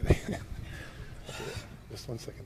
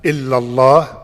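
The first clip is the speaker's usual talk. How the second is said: slow, carefully separated syllables; measured dictation for someone to repeat. Shown as a demonstration. Prompting a new convert to repeat, very slow. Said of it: "say it very slowly".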